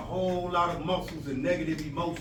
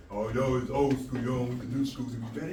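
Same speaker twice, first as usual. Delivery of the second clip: mock student retort; 5 semitones lower than usual. Mocking students' comeback.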